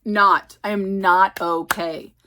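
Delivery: slow, heavily spaced words; stunned, deliberate. Real, not acted. Reader reeling from her book, stunned and deliberate. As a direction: spell out the distress word by word.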